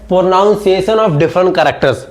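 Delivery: slow and deliberate, word by word; slow dictation. Shown as a demonstration. Teacher dictates the topic to students taking notes. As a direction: dictate it so they can write it down.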